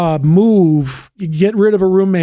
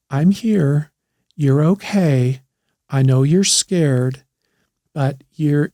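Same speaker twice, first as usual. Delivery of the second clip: put-on calm a panicked two-year-old gently; gentle soothing tone; 3 semitones lower than usual. Shown as a demonstration. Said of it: "is just in a very gentle tone".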